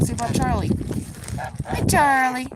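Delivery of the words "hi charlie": cooing greeting. Real, not acted. Greeting goose Charlie.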